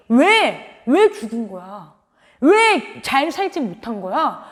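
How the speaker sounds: drawn-out, aggrieved whys, mildly acted; Jonah. Preacher voices the prophet mourning his vine, mildly mock-angry. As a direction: protest slowly, stretching out each complaint. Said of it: "요나는 화를 내고 있다는 거예요".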